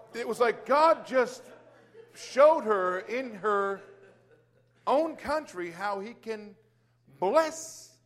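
slow, loud, spaced-out words rising to a high BLESS; emphatic preaching. Real, not acted. Preacher driving home God's blessing, slow loud emphasis. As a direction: stretch it out with long pauses and punch "bless".

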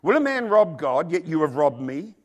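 emphatic accusing reading. Acted. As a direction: read it as a charge against them. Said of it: "Let me read it again".

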